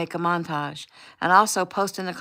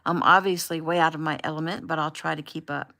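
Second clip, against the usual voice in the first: upbeat livestream host; 4 dB louder than usual. Acted. Gabe live on camera greeting followers.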